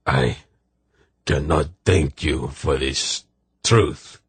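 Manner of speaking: slow, halting, understated grief; restrained sorrow in a slow voice; weeping. A narrator's reading. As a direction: grieve slowly, word by word. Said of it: "shaking in the storm of his weeping".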